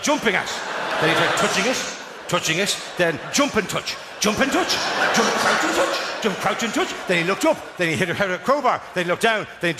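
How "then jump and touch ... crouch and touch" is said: frantic mashing. Retold or imitated.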